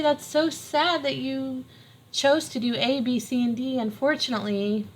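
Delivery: hammed-up sorry-not-sorry parent voice; mock-sympathetic parent. Parent voicing fake pity to a grounded child.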